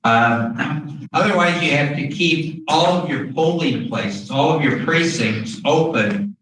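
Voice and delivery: muffled behind a mask; through a face mask. Real, not acted. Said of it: "it's hard to, after a while, talk through a mask".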